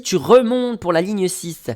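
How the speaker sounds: high, slow echo of her instruction; lady giving directions. Retold or imitated. Traveller recalling the lady's directions, slow high imitation. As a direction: mimic her, drawing out the key word. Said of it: "comme elle m'a dit".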